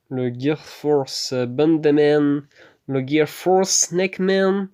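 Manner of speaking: over-the-top fake Japanese accent on anime move names; bad Japanese accent. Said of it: "Avec mon accent japonais dégueulasse".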